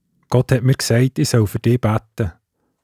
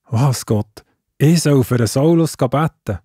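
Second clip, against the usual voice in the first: can't believe what God asks; indignant surprise; 3 semitones higher than usual. Acted. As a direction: Hananias protesting God's order, startled. Hananias told to visit Saulus.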